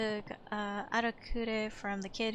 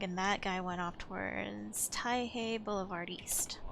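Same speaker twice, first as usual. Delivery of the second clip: whisper; 5 dB quieter than usual. Acted. Reading game recap under breath.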